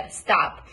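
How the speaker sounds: "Stop" with the t softened toward a d; st blend. Shown as a demonstration. Coach modelling "Stop" for a student, t softened toward d. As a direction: say "Stop" with a light d-like t. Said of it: "It sounds more like a d than a t".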